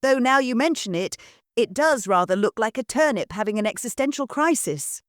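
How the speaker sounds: put-on chirpy young daughter answering without a care; bright girl. Marianne continues.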